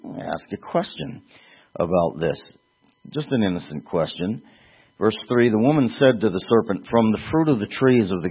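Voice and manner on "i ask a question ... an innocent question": soft, innocent-sounding aside; feigned ignorance. Acted. Slanderer asking just an innocent question, feigned ignorance. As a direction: play dumb, quietly. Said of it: "this, uh, feigned ignorance".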